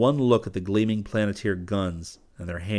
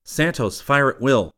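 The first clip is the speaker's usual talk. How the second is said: raised commanding call; 5 semitones higher, 6 dB louder than usual. A narrator's reading. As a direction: call the order across the field. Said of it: "Rip called".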